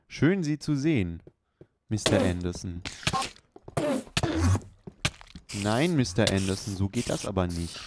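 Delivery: hammed-up villain stalking his target; loud mock Matrix agent taunting Mister Anderson. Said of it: "Mister Anderson. Aus der Matrix".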